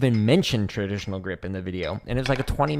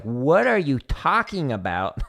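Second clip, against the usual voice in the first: slow, incredulous and louder; baffled; 5 semitones higher, 4 dB louder, slower than usual. Retold or imitated. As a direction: drag it out in disbelief. Baffled reaction to bad advice.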